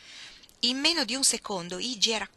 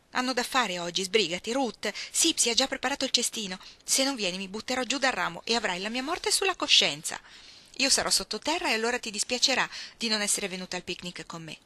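lightly voiced girl, higher, half-joking threats; impatient Iggy; 3 semitones higher, 4 dB louder than usual. Iggy rushing Ruth out of bed, lightly voiced mock threat. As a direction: hurry her along with mock drama.

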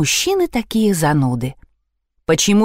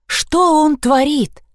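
shocked; 8 semitones higher, slower than usual. A narrator's reading. Shocked watching the elephant.

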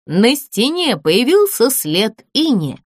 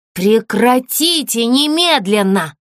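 stern call; slower than usual. Acted. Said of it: "прикрикнула Энн".

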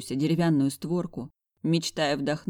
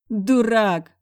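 hiccuping; 6 semitones higher, 8 dB louder than usual. A narrator's reading. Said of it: "по-идиотски икнула я".

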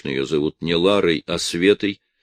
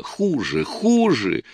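хуже shrieked much higher; shouted; 8 semitones higher, slower than usual. A narrator's reading. Wife shouts at husband that life got worse. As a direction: cry it out in anger. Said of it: "выкрикнула Рая".

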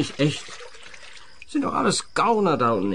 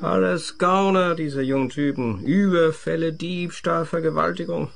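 bitter rant; 6 semitones higher than usual. Acted. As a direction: spit out the list of crimes. Drunk son ranting about young men.

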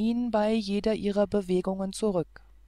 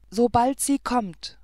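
loud, higher burst of excitement; louder and higher, full of eager hope; eager cry; 4 semitones higher, 5 dB louder than usual. Acted. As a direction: call it out with rapture. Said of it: "rief er".

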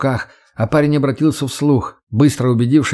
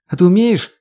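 teasing female voice; 7 semitones higher, 4 dB louder than usual. Acted. Redhead teasing Max.

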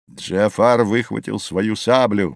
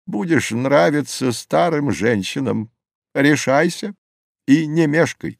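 lightly voiced old man, often raised in pitch; solemn old sage; 3 semitones higher than usual. Old man offers youth three magic apples, lightly voiced solemn sage. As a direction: set out the choice as an old sage.

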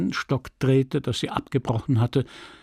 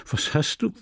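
flustered stammer; 3 semitones higher than usual. Acted. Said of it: "stammelte er verdattert".

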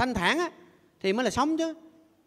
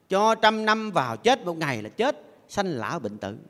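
ngân dài từng câu như ngâm; đọc chậm như ngâm kệ; ngâm thơ. Acted. Ngâm thơ về sanh lão bệnh tử. (giọng ngâm chậm rãi)

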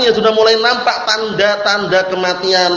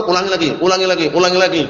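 pushy nagging; faster than usual. Retold or imitated. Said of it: "kalau antum paksa-paksa terus".

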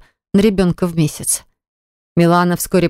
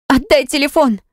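high shriek for the phone; a shrill cry of demand; 8 semitones higher than usual. A narrator's reading. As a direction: squeal it out, grabbing for the phone. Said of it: "взвизгнула она".

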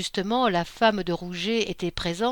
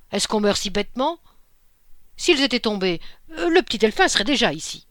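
louder, rising, quicker at the end; old man insisting loudly; 2 semitones higher, 5 dB louder, faster than usual. A narrator's reading. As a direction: argue the point with growing force. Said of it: "s'écria l'empereur". (vieil homme qui insiste, de plus en plus fort)

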